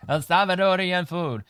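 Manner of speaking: a light imitation of a movie Latina accent. Quoting the girlfriend from Training Day, a mock Latina accent. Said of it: "She said El Salvador with the accent".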